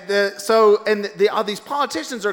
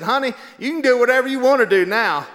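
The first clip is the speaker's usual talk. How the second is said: a hint of a sassy officer; 6 semitones higher, 7 dB louder than usual. Police officer's reply.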